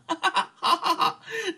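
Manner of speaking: high gleeful cackle of a smitten lord; delighted laugh. Acted. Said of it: "没把这王安国给美死啊".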